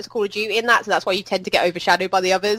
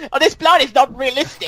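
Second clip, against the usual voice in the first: higher put-on child voice; mock complaining kid; 4 semitones higher than usual. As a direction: ham up a kid's complaint.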